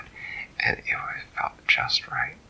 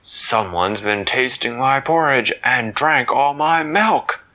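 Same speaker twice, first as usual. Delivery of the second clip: indignant Papa Bear; 2 semitones higher, 6 dB louder, slower than usual. Acted. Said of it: "Papa Bear said".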